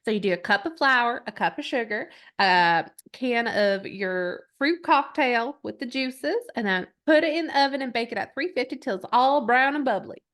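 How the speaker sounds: lightly put-on Southern accent, country recipe voice-over; a famous country singer. Host reciting a viral cake recipe to a friend, mild Southern impersonation. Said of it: "my best Dolly Parton, um, impersonation".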